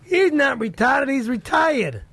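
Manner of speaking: "retarded" and "retired" drawn out in contrast; emphatic correction. Acted. Correcting his friend, slowly stressing "retired" against "retarded". Correcting a misheard Boston accent word.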